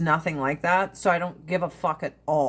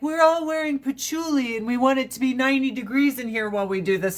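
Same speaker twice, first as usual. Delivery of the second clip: higher, faster hammed-up hippie; lightly mock the dreamy hippies; a hint of a spacey hippie, rushed and higher; 5 semitones higher, faster than usual. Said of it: "Then the hippies are like".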